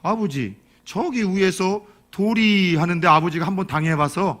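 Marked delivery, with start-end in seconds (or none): 0.0-3.1 slow, stretched Chungcheong warning; unhurried son, much too late; slow drawling son. Retold or imitated. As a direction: drag the warning out far too slowly. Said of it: "또 느려요".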